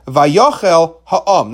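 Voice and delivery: Ha'am drawn out very slowly and weighted; stress on Ha'am. Shown as a demonstration. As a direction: lean hard on Ha'am, slowly. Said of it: "not Vayochel Bilam".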